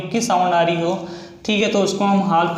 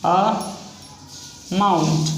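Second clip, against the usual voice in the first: drawn out; much slower than usual. Shown as a demonstration. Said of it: "teacher draws word while saying it".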